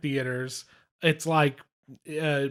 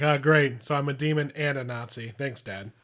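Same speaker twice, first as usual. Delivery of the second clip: sarcastic complaint. Retold or imitated. Hero complaining to his dad about being a demon, sarcastic. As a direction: grumble it with dry sarcasm.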